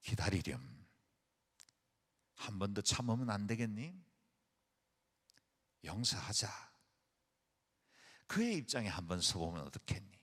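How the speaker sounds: gentle, tender voice. Retold or imitated. The Lord gently urging the listener to wait and forgive, soft and tender. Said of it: "온유하신 그분이 말씀하십니다".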